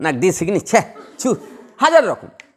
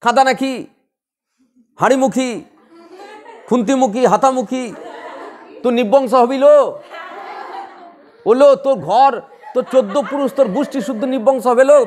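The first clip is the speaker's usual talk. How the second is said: mock village curses, half laughing; quarrelling old woman; 3 semitones higher than usual. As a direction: hurl insults like a sparring old woman. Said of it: "তখন কি বলে?". (হাসতে হাসতে বুড়ির ঝগড়ার নকল)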